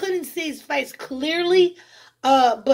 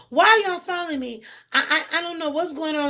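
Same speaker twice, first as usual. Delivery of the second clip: frightened plea; 4 semitones higher, faster than usual. Retold or imitated. Confronting armed men in dream.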